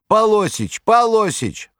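high, loud desperate call; anguished call. A narrator's reading. Saleswoman calling the manager across the store, loud desperate cry. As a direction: call for help across the shop. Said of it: "тоскливо прокричала на весь магазин".

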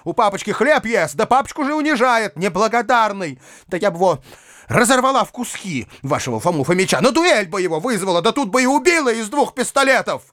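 put-on high, heated girlish tirade; carried-away, indignant young girl; girl beside herself. A narrator's reading. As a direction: rage on in a high child's voice. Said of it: "пришедшая в какое-то самозабвение".

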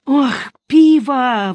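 longing sigh. A narrator's reading. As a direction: savour the word like a thirsty man. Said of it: "вздохнул Низушек". (протяжный вздох наслаждения)

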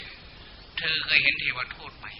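slow, soft asking voice; slow gentle question. Shown as a demonstration. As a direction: draw the question out slowly and softly. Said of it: "แล้วก็ถาม". (ถามช้าๆ เบาๆ)

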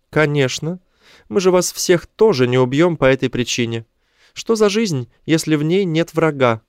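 high-pitched creature voice; high, self-assured alien leader; alien chief. A narrator's reading. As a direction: explain the love of war in a high alien voice.

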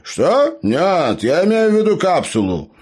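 high, loud quick correction; startled gnome. A narrator's reading. Gnome hastily corrects Tasya, high and startled. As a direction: blurt out the correction.

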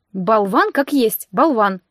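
slow, muttered insult; muttered through teeth. Acted. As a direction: grumble it under your breath. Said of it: "я процедила".

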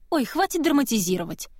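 dismissive, impatient scolding; haughty. Acted. Woman scolding coughing Kiva, haughty and dismissive. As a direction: brush off her suffering. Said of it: "надменно произнёс женский голос".

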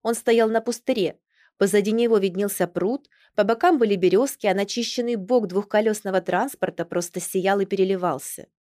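ordinary delivery, nothing marked

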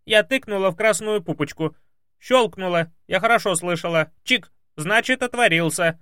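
high, loud protest; arguing maid. Acted. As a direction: push back like a stubborn maid. Maid defends herself.

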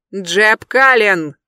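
slow, loud call from behind. Acted. Adam calls to Jeb from behind, slow loud call. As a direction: call his full name to stop him. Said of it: "раздался мужской голос".

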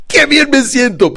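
high, loud, stretched-out cheer; enthusiastic demonstration. Shown as a demonstration. Coach insisting client say it right now, enthusiastic. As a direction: draw it out with big enthusiasm. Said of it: "pero con entusiasmo".

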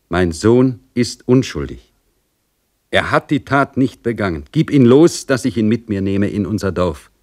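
lightly voiced mother, earnest and resolute; pleading serf mother. Mother asks the general to free her innocent son, resolute. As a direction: plead firmly, weighting the key demands.

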